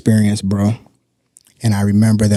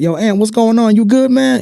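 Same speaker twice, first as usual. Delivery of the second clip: much higher, gentle concerned greeting; caring check-in; 13 semitones higher, 4 dB louder than usual. Retold or imitated. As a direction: reach up high, checking on a friend. Retold greeting to distressed resident.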